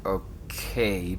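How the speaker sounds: breathy whispered okay, falling. Acted. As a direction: whisper it under your breath. Hushed reply in tense talk.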